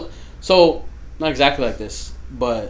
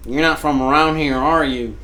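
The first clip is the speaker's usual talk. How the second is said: imitated Southern accent. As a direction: mimic a local Southerner. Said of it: "still have the accents is Southern people".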